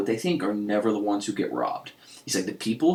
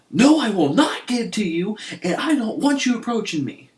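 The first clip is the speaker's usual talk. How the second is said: firm refusal; 10 semitones higher, 4 dB louder than usual. Retold or imitated. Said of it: "And the guy goes".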